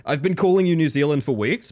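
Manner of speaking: ordinary talk, nothing marked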